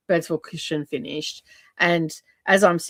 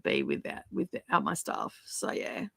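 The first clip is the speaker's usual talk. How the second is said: whispering; 9 dB quieter than usual. Real, not acted. Trailing off to herself.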